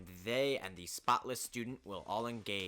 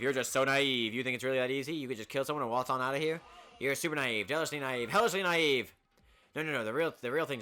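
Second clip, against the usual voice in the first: louder, gloating mascot voice; taunting bear mascot; 6 dB louder than usual. Acted. Monokuma gloats loudly at the naive students. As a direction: gloat over them with each insult.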